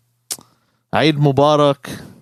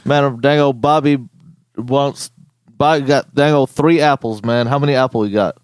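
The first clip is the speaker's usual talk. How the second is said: put-on a light joking redneck accent, drawled phrases; playing a Southern redneck buddy for laughs, lightly. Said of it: "I'll just do a fucking redneck accent".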